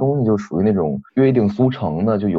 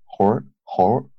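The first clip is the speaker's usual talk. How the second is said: 猴儿 in a native Beijing accent; slow 猴儿 with a Beijing curled ending. Shown as a demonstration. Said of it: "你说一下".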